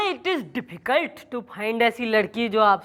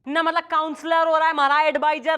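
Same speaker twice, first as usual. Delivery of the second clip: indignant scolding; 2 semitones higher than usual. Acted. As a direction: put the meddler in their place. Scolding the meddling helper. (चिढ़कर डाँटते हुए)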